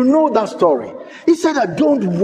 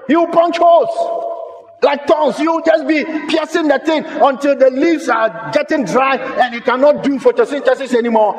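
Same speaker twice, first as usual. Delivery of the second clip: full force preaching; 3 semitones higher than usual. Acted. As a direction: hammer the warning home.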